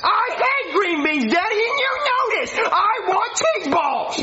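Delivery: mock childish yelling, stretching the last words; whiny tantrum. Jeffy refuses green beans from Daddy, whiny tantrum.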